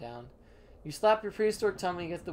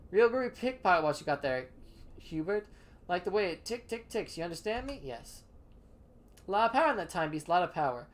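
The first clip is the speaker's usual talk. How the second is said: put-on laid-back hip cat crooning "baby"; a lightly voiced smooth jive talker; groovy hipster; 2 semitones higher than usual. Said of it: "Charles doesn't call me baby".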